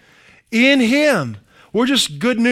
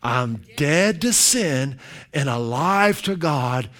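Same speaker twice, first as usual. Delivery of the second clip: slow group recitation; 6 semitones lower, 4 dB quieter than usual. Shown as a demonstration. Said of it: "Let's say it together".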